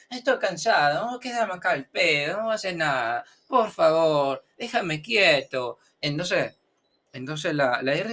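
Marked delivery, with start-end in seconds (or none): 0.1-5.8 lightly acted lazy letter wanting peace; mock weary, whining complaint; tired R pleading. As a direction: plead to be left alone, stretching the end. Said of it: "la R se queda juntita y dije".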